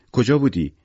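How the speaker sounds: sharp, loud demand; shouting at her. A narrator's reading. Victor shouts at his daughter on the stairs, loud and relieved. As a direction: snap the question at a child who wandered off. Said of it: "سرش داد کشید".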